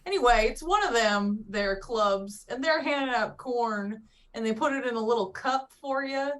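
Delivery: put-on lightly Southern country accent; easy rural country accent. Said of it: "Give us your answer with a country accent".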